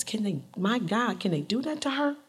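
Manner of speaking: soft, appalled aside; hushed indignation. Retold or imitated. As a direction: ask an aide in quiet disbelief. Clinton reacts quietly to her aide.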